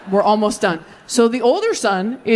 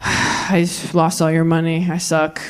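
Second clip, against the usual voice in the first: mock sorry; 6 semitones lower than usual.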